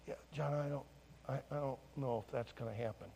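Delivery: low, soft, hesitant; reluctant reply. Retold or imitated. Pastor begging off from giving chapel, reluctant and hushed. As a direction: murmur it, backing out gently.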